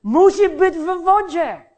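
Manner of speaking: loud, high-pitched imitation of dad; father's insistent admonishing. Father repeats fishing rule to his child, insistent admonishing. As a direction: drive it home like an insistent parent. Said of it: "I on ciągle mi mówił".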